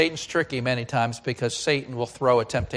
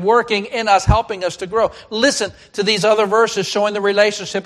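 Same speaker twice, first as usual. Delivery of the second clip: higher, emphatic preacher's delivery; raised, punchy sermon voice; forceful preaching; 7 semitones higher, 7 dB louder than usual. Real, not acted. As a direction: drive each point home to the congregation.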